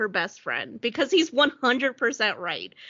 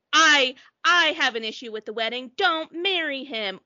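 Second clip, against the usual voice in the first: dramatic objection; 2 semitones higher, 4 dB louder than usual. Acted. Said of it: "either he's like".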